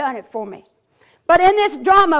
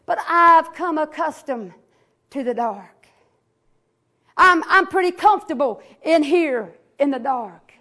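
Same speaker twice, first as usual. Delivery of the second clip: voice in the tomb. Acted. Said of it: "comes a voice that says".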